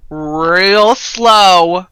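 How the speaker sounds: "real slow" stretched out; drawn out slowly. Real, not acted. Putting him down carefully, words drawn out slowly.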